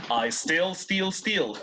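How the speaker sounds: I still steal spelled out slowly, still short, steal long; slow teacher model of I still steal; slow model phrase. Shown as a demonstration. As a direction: lay it out slowly for the class. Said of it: "One more time".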